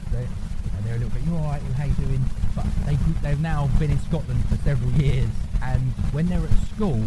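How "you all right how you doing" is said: mock-Cockney greeting; lightly put-on fake Cockney; Mockney accent. Imitating English-born nieces and nephews, in a Mockney accent. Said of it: "they've got Mockney accents".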